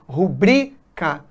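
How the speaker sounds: rubrica said as ru-BRI-ca; slow rubrica, leaning on BRI; broken-up rubrica, weight on BRI; stress on middle syllable. Shown as a demonstration. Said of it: "o correto é recorde".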